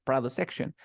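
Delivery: Produce said PROD-uce before "section"; stress on first syllable. Shown as a demonstration. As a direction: lean on the start of Produce. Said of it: "the stress goes first here at the beginning".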